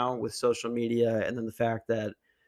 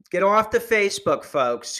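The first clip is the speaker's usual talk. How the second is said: higher, louder nagging lady; annoying lady voice, louder; 7 semitones higher, 6 dB louder than usual. Retold or imitated. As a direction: bark it like a preachy lecturer. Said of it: "she sounds like, uh, super annoying".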